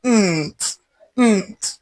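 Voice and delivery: Nt voiced softly with no vowel between; final consonant sound. Shown as a demonstration. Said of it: "N T".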